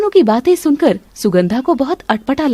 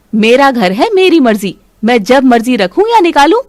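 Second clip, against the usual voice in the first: louder, scolding a maid off the doorstep; angry scolding; 5 dB louder than usual. Acted. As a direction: tell her off sharply, louder. Mother-in-law scolds the maid.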